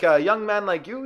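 put-on slow, leering Indian-accented driver; creepy driver. Driver flatters the teen, slow creepy accent. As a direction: drag it out like a creep sizing him up. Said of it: "he's like".

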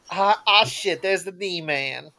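slow, drawn-out call of D-Man; mock friend greeting. Old friend greeting him, slow drawn-out nickname. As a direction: stretch out the nickname lazily. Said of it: "that's all I'd hear".

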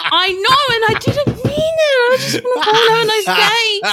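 high-pitched embarrassed whine; squealing, mortified self-defence; flustered protest. Real, not acted. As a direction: plead innocence, voice way up high. Flustered defence of accidental mimicry.

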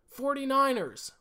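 Johnny Broadcast voice. Pretend. Podcaster announcing his pick in a hammed-up radio announcer voice. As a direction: boom out "Forty-niners" like a radio announcer, slowly. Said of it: "so focused on doing this voice".

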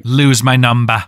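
lightly put-on English accent. Date brushing him off, mock English accent. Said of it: "doing a s-, an English accent".

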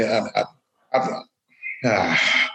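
stuttering, halting speech. Real, not acted. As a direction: stumble and repeat words. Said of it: "like I did right now".

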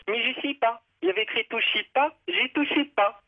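lightly hammed Arab accent, high pitched; joke accent. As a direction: deliver the Toshiba punchline in a mock Arab accent. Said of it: "L'Arabe, il, il répond".

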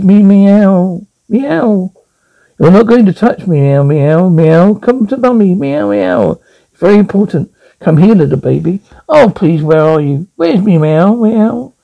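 cooing meow calls to a hiding cat; calling the cat. Acted. Wife searches the basement for her cat, cooing meows.

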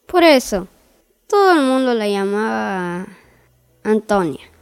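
calm, even fairy-tale reading voice; story narration. A narrator's reading. Narrator opening the tale for listeners, in storytelling voice. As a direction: read it like a bedtime story.

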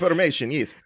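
comic Russian schemer; Russian accent. Pretend. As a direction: chime in with a put-on Russian accent. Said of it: "It was the Russians".

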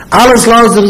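high-pitched mock outburst; mock yelling. Objector ordering someone out, mock yelling. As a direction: act out an indignant yeller. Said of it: "und einer schreit".

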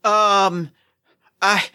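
a con artist faking exhaustion for sympathy; feigned weakness. Pretend.

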